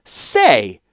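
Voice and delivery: loud indignant outburst; indignant cry. A narrator's reading. Kayla crying out at her father, indignant. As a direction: throw the word back. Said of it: "cried Kayla".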